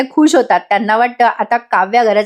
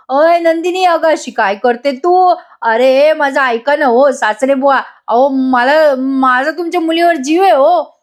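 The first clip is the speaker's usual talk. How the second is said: flustered; 3 semitones higher than usual. Retold or imitated. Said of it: "जीवा आणखीन गडबडतो".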